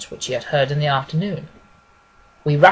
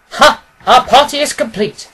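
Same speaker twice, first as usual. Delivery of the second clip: hearty Holmes greeting; 7 semitones higher, 10 dB louder than usual. A narrator's reading. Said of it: "said Holmes".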